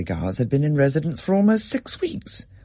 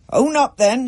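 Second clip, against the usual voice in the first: angry Dad; 13 semitones higher, 5 dB louder than usual. A narrator's reading. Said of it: "he said".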